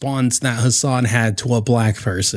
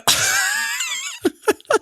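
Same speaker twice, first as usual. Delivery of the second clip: high squealing outraged laugh; piercing disbelieving cackle; shrieking laugh; 4 dB quieter than usual. Real, not acted.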